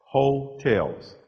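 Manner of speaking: hotels said HO-tels, first syllable leaned on hard; emphasis on first syllable. Shown as a demonstration. Joking about the cheap motels, first syllable stressed. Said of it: "special emphasis on that first syllable".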